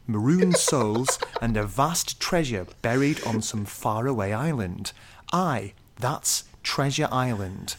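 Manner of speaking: lightly posh RP bedtime reading, measured and even; received pronunciation. Shown as a demonstration. Rereading the review in RP at co-host's request, lightly RP. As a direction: read it like the Radio four book at bedtime in RP. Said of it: "in a sort of received pronunciation kind of accent".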